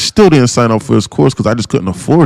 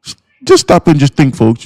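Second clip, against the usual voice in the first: imitating an Indian mentor's accent; lightly voiced Indian accent; 3 semitones higher than usual. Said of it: "in his Indian voice".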